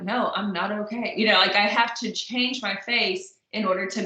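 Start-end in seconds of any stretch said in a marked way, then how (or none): 0.0-1.1 sad. Shown as a demonstration. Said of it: "look like this to sound like".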